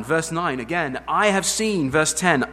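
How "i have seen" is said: higher, louder, slow proclamation; booming declaration. Acted. Preacher booming God's words to Moses, slow and loud. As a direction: boom it out slowly. Emphatic God quote.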